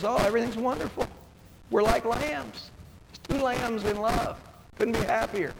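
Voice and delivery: sarcastically sweet, parodying a fake-happy couple; mock sweet sarcasm. Mocking couples who fake harmony.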